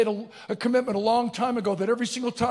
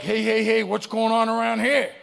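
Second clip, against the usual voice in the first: louder, comic protest; mock alarm; 4 dB louder than usual. Waking sleeper protesting his aches, mock alarmed. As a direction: call it out in mild mock alarm.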